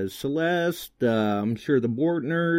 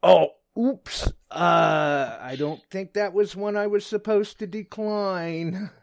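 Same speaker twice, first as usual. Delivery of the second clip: sheepish laughing; 8 semitones higher than usual. Retold or imitated. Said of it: "that's when I'm like".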